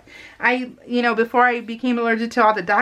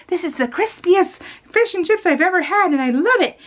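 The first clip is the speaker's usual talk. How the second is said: imitating mom's gushing; 9 semitones higher than usual. Mom raves about fish and chips.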